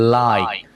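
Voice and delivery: "like" drawn out, then cut off by the K; stopped final K. Shown as a demonstration. Teacher explaining the ending, "like" stopped on K. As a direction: stretch "like" and block the air on K. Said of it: "Âm K chặn lại".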